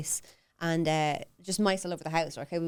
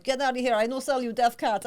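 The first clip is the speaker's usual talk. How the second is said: higher, dismissive mock Lucan accent; 5 semitones higher than usual. Cat seller dismissing a buyer's worry, Lucan accent. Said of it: "That's my Lucan accent".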